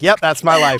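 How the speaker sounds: loud laughing exclamation. Real, not acted. Laughing at his ex-wife's wedding jab, half-shouted. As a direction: burst out laughing as you say it.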